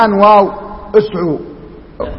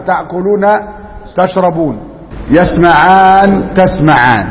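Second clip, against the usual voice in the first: كلمة ممدودة للشرح; slower than usual. Shown as a demonstration. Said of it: "اللي هي افعال خمسة".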